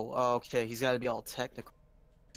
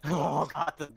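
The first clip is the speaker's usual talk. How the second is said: fervent, louder burst over a favorite game; real fervor; 2 semitones higher, 4 dB louder, slower than usual. Real, not acted. Gamer hears friend pick a beloved game, fervent. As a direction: gush with fervor, starting loud and easing off. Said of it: "hear the fervor in the speaker's voice".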